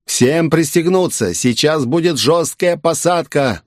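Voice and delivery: urgent pilot over the PA; pilot over the radio. Acted. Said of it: "голос пилота из динамиков".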